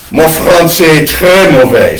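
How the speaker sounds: put-on rough Alsatian-accented French, throaty; mock Alsatian French, rough and guttural. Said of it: "So it was very rough and very guttural".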